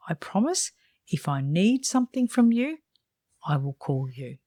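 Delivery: sincere, measured refusal with pauses between sentences; demonstrating an earnest, polite no; most genuine voice. Shown as a demonstration. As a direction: let them down honestly and gently. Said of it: "in your most genuine voice".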